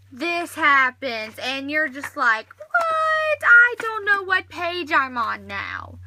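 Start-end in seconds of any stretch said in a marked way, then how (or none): 2.6-6.0 a shrill, much higher and louder yelp of alarm; hammed-up panic at a lost page; panicked shock. Reader discovering the book closed, in mock panic.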